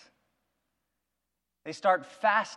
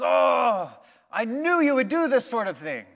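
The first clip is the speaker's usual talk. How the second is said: a louder, higher, exasperated Jonah; angry complaint; 5 semitones higher, 4 dB louder than usual. Retold or imitated. The preacher voicing Jonah, griping to God about mercy, in higher exasperation. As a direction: vent it at God like you saw it coming.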